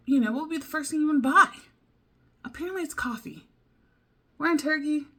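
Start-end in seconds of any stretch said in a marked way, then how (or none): 0.1-1.5 excited question. Real, not acted.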